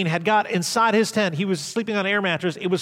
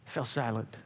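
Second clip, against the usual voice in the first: softer, lower repeat; quiet echo; 9 semitones lower, 13 dB quieter than usual. Shown as a demonstration.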